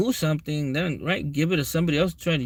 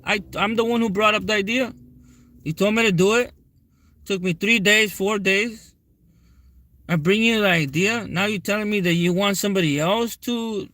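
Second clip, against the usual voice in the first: higher-pitched, indignant retelling of the rant; hurt, heated complaint to the boss, higher than usual; retold angry outburst; 5 semitones higher than usual. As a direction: replay the argument with mock outrage, pitch up. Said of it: "I told him".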